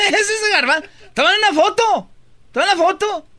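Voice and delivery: high, loud mocking call; crie-le en te moquant; excited teasing. Real, not acted. Excited teasing photo request.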